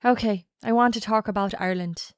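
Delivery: mock-serious Irish accent; Irish accent, repeating a bit; put-on Irish accent. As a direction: announce it in an Irish lilt. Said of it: "Everyone's got family from Ireland".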